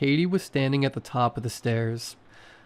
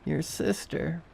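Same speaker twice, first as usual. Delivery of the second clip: mimicking a recording; 5 semitones higher, 6 dB quieter than usual. A narrator's reading. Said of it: "like she was mimicking a recording".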